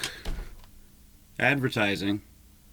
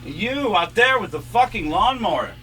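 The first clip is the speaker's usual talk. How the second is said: annoyed outburst; 2 semitones higher than usual. Real, not acted. Yelling at the neighbour's lawnmower.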